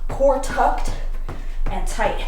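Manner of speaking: pumped-up trainer cue; coach's shout. Acted. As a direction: bark the cue over the music. Coach cue during max effort.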